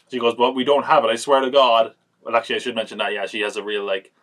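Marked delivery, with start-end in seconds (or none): 0.3-1.9 mildly hammed-up pleading, a bit louder; over-the-top plea. Wife pleading with the villain, mildly over the top. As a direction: lightly mimic a melodramatic protest. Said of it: "she's over the top as well".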